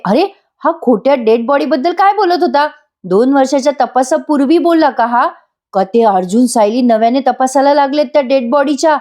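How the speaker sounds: a mild fright building as she realises; worried to herself. Acted. Priya alone, fearing the truth will reach her, rising alarm. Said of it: "Priya आता घाबरलीये मनातून".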